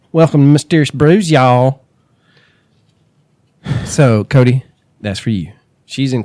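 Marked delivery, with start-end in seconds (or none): 0.1-1.8 louder, perky Southern welcome; mock Hooters greeting. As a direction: sell the show opening like a cheery waitress. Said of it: "she wants us to start, uh, opening like that".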